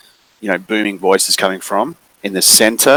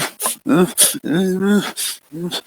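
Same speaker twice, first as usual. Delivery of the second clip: whimpering cry; 11 semitones higher, 4 dB quieter than usual. Acted. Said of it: "little girl crying".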